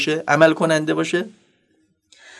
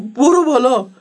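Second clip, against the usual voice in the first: higher-pitched mock scared retort; acted fearfulness; 6 semitones higher, 3 dB louder, slower than usual. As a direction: play a rattled driver parroting an order. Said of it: "با همون حالت ترسولتش گفت".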